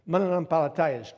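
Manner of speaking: mananampalatayas said in Filipino, each syllable even; Tagalog word. Shown as a demonstration. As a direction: Tagalog mananampalatayas, clearly and loud. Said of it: "as we say in the Philippines".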